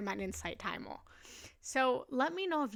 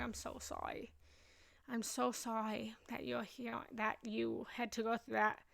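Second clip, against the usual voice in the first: sympathetic; 5 dB quieter than usual. Real, not acted. Consoles someone who lost home.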